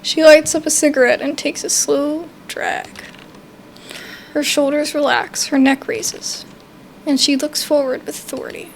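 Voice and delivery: even, measured game narration; story narration. Acted. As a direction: read the scene aloud to viewers. Reads game narration aloud.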